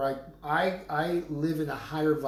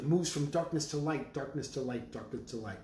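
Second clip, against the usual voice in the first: each darkness to light said softer, down to a murmur; fading incantation; 5 dB quieter than usual. Acted. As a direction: let the phrase fade away like a chant. Chanting phrase, fading.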